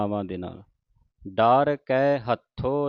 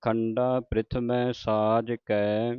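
drawn-out devotional reading, line by line; slow scripture recitation; slower than usual. Shown as a demonstration. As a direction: recite it slowly like Gurbani santhiya. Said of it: "ਸਹਿਸਾਰ ਇਕੱਠਾ ਬੋਲਣਾ ਹੈ". (ਹੌਲੀ ਹੌਲੀ ਪਾਠ ਦਾ ਉਚਾਰਨ)

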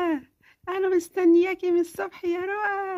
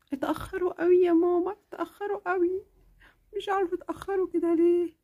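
put-on impatient little girl. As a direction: fret like a kid who can't wait. Impatient child.

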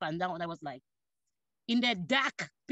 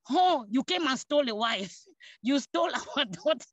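laughing mock accusation; 4 semitones higher than usual. Family teasingly accusing the groom.

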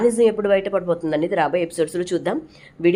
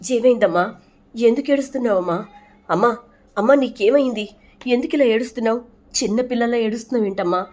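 higher, anxious questions to a crying mother; worried pleading; 4 semitones higher than usual. Acted. Deepa to crying Sumitra: higher, worried pleading. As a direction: ask her gently but urgently what is wrong.

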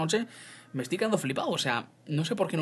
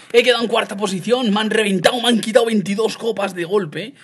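loud, raised-pitch outburst; outraged complaint; 6 semitones higher, 8 dB louder than usual. Real, not acted. Gamer telling viewers he lost trophies, loud outrage. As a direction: cry out at a crushing loss. Reporting a crushing defeat.

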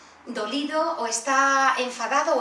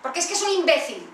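put-on louder, higher, huffy child complaint; angry child; 3 semitones higher, 5 dB louder than usual. Child role-play complains about her brother, loud and cross. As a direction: stamp your foot as a cross kid. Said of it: "te toca a ti".

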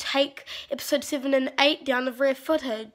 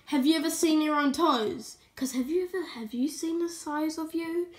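mocking roast; 3 semitones higher, 3 dB quieter than usual. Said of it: "So I said".

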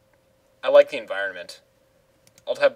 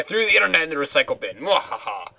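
mad scientist; 3 semitones higher, faster than usual. Pretend. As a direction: gloat like a cartoon villain. Villain brag then evil laugh.

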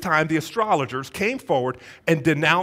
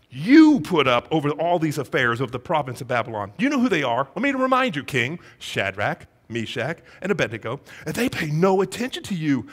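pointed reminder. Acted. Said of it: "holding up a mirror to the king".

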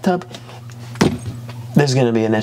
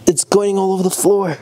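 panicked; 7 semitones higher than usual. Real, not acted. Leak panic.

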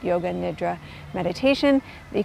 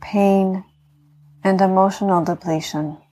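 guided meditation. Acted. Yoga teacher talking listeners into healing rest, calm meditation voice.

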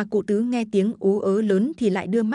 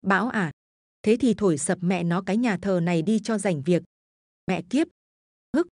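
put-on slurred drunk. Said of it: "Lão lè nhè cái giọng".

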